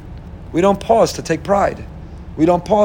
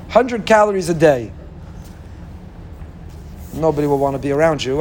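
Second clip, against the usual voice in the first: ordinary delivery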